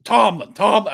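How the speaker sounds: shouting the coach's name at the TV; exasperated fan shouting at the screen; retold yelling. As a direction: yell Tomlin three times, fading a little. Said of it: "I was yelling like".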